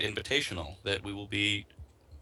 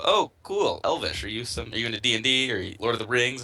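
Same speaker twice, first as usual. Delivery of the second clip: mock excited stranger; 3 semitones higher, 4 dB louder than usual. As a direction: play the clueless fan who thinks it's Elvish. Strangers misreading his Greek shirt.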